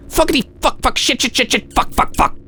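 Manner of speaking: rattled string of swears under your breath; panicked swearing. Acted. Daniel with shaking hands trying to aim, high frantic hushed cursing.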